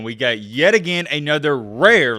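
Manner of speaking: "rare" punched for emphasis; emphasize rare. Shown as a demonstration. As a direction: stress on the word "rare". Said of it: "let me emphasize that word".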